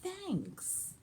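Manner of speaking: a timid bear murmuring thanks; shy bear. Acted.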